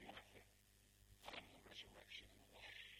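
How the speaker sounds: soft, understated declaration; Jesus. Acted. Jesus looks down at grieving Martha, quiet assurance. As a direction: say it gently and very quietly. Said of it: "The Lord Jesus looks down at Martha".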